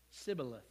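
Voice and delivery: "Sibboleth" with S in place of SH; failed attempt, "Sibboleth" starting with plain S; mispronounced s. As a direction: say "Sibboleth", low and soft, hissing first sound. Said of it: "he couldn't pronounce it right".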